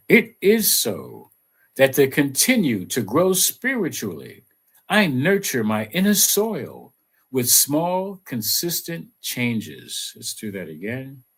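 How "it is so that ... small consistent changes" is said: affirmation read. Acted. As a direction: recite it like a gentle mantra. Reads affirmation aloud.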